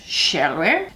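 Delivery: playful Queen's English lilt; Queen's English accent. Acted. Vlogger leaning into The Crown's royal speech, Queen's English accent. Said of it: "the Queen's English accent".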